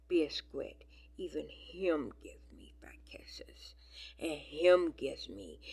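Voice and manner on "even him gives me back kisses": whisper. Real, not acted. Cooing over kittens' kisses.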